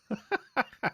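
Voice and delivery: high, staccato put-on cackle; creepy laugh. Streamer capping the creepy voice for a viewer, mock-sinister laugh.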